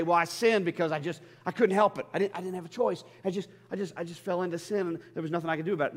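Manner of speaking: flustered mock self-justification; mock excuse-making. Acting out a sinner's excuses.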